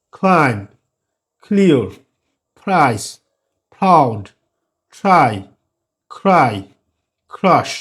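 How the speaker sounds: only a light puff on K in "কুইক"; mild aspiration. Shown as a demonstration. Teacher listing examples for learners, weakly aspirated first consonant. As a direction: release P, T or K gently before W, L or R, as in "প্লে". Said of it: "কিন্তু mild aspiration".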